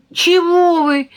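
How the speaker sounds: baffled why everyone yells; amazed. A narrator's reading. Boy baffled by the family's shouting, startled. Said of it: "изумился Кирюшка".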